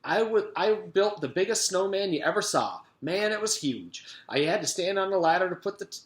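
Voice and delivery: put-on an excited boy who won't stop talking; freight train chatter. A narrator's reading. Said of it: "Mac's voice was like a freight train".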